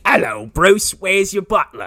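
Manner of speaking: hammed-up gangster taunt with a put-on accent; Penguin. Friend riffing on Arkham Knight's villain, hammed-up accented taunt. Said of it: "you sound like Penguin from fucking Arkham Knight".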